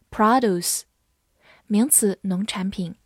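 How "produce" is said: American noun "produce", first syllable stressed with an open "ah"; American-accented "produce"; American pronunciation. Shown as a demonstration. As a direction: say "produce" the American way, PRAH-doose. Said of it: "美式发音".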